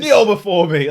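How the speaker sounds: huge, high, booming god voice; booming arrogant alien overlord. Acted. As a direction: proclaim yourself a god. Continues mock god voice.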